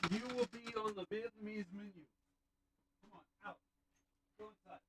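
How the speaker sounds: distant calls to the dogs from outside; yelling at the dogs from across the yard; calling the dogs. Real, not acted.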